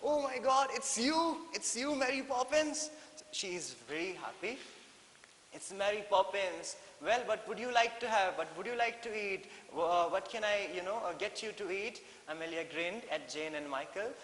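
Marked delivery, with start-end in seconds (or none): 0.0-2.9 high, loud excited shout; teacher showing how you yell on meeting a friend; happy yell. Shown as a demonstration. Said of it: "you yell like this". 5.5-12.0 excited dolphin. Acted. Dolphin voiced eagerly offering food.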